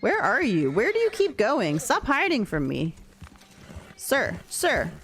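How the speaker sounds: mock-indignant calling, voice lifted; playful scolding. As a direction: call after a runaway pet in mock exasperation. Scolding a runaway animal in game.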